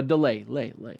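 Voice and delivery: word repeating as a fading echo; echo imitation. Shown as a demonstration. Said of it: "like that".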